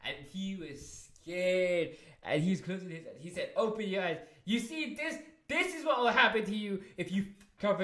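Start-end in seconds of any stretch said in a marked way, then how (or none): 3.6-7.8 retold angry warning; pissed threat. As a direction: threaten him the way the boss did. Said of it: "He was pissed at him".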